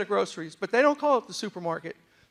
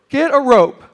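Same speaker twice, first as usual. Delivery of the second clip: loud, higher-pitched mock commercial line; shouted punchline; 5 semitones higher, 14 dB louder, slower than usual. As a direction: belt out the advert's catchphrase.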